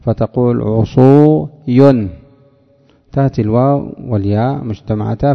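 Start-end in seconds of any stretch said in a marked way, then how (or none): 0.6-2.1 عصوي drawn out slowly; slow demo. Shown as a demonstration. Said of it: "تقلب لام فعول ياء".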